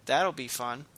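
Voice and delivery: dry, flat sarcastic remark. Real, not acted. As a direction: say it like you don't mean it. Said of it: "that came off more sarcastic".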